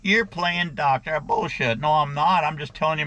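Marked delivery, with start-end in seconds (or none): 0.0-1.2 slow, drawn-out scolding in imitation; mock reprimand. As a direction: play the scolding authority, stretching the words. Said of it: "gonna get reprimanded by YouTube".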